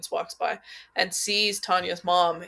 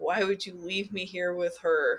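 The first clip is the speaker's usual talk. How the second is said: acted, super upset outburst; 4 dB quieter than usual. Describing a movie scene where a daughter's dad leaves, acting out her super upset line. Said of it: "she's super upset".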